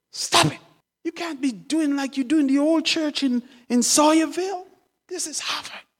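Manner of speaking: high-pitched reproach; son scolding. Acted. Son to his father at Harvard, scolding him.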